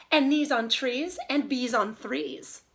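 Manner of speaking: careful correction. Shown as a demonstration. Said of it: "I made a mistake".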